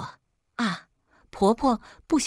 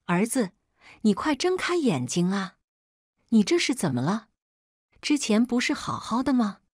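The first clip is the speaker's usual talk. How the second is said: frantic wailing; 4 semitones higher than usual. A narrator's reading. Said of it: "仿佛这能将梁平摇醒一般".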